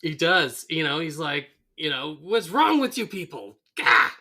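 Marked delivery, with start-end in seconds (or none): 2.2-4.1 high, loud mock outburst; snapping in exasperation. Frank snapping as the town cheers Homer, exasperated. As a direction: crack up at the whole crowd. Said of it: "Well, he finally snaps".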